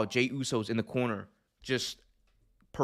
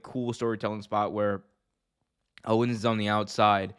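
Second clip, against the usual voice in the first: ordinary delivery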